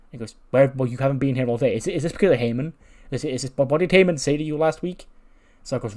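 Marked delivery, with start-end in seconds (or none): 0.5-5.1 mildly raised, stumbling interrogation; agitated questioning. Retold or imitated. Tag partner asking teammate about Heyman, agitated. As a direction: press the partner with suspicion.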